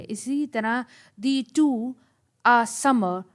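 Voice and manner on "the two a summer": loud, measured "the two a summer", weight on "sum"; stress on SUM. Shown as a demonstration. Teacher shows the stressed syllable, punching "sum" in "summer". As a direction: push "sum" in "summer", let "mer" drop. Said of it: "समर के अंदर भी आप देख सकते हैं कि स".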